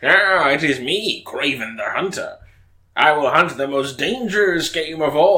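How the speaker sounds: boastful hunter villain, lightly voiced; Kraven voice. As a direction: proudly announce yourself as the hunter. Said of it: "Is that your Kraven voice?".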